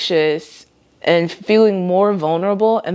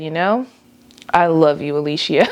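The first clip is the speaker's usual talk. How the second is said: gentle self-love. Retold or imitated. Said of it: "a place where I said".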